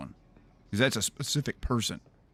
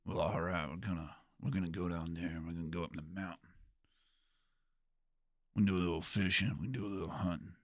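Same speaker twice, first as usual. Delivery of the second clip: put-on Utah accent; 2 semitones lower, 7 dB quieter, faster than usual. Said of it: "I don't know if I can do a Utah accent".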